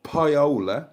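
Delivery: "paiola" said slowly as pie-OH-luh; wrong name attempt. Shown as a demonstration. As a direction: stretch the OH in "paiola", rising. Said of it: "It's not".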